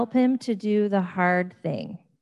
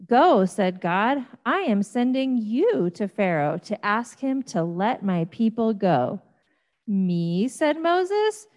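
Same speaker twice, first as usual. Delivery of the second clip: animated storytelling voice with big pitch swings; story for children. Acted. Pastor reading the burning bush story to children, animated. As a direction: tell it like a picture book for kids.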